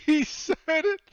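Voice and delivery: very high, loud shrieks broken by laughter; shrieking excitement. Real, not acted. Game master shrieks with joy when the player rolls a one. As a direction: scream with delight at the roll. GM reacts to natural one roll.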